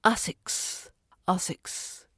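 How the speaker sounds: "asics" for asks, extra vowel between s and k; added vowel. Shown as a demonstration. Teacher imitating Spanish speakers' error, vowel slipped into "asics". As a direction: break the cluster into ah-siks. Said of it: "add a little vowel in between".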